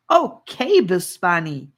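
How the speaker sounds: put-on boy relieved and glad; happy okay. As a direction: brighten up all at once. Boy cheerfully accepts.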